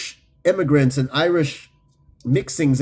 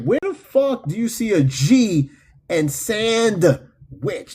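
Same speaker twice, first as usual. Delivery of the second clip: incredulous; 4 semitones higher, slower than usual. Retold or imitated. Acts out incredulous reaction to mispronunciation.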